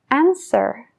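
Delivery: "answer" said anser, no W; silent w. Shown as a demonstration. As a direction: leave the W out of "answer". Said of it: "La W en answer". ("answer" sin la W)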